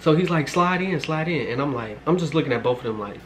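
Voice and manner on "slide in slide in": higher, mock welcoming voice; imitated invitation. Brother waving the visitor into the house, imitated higher.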